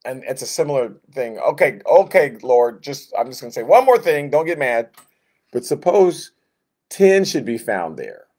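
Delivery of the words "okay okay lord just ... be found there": nervous pleading. Acted. Abraham bargaining with God.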